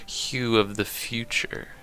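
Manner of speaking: fancy British poetry recital; British accent. Acted. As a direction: read the poem in a put-on British accent. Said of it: "I gotta do it on British accent".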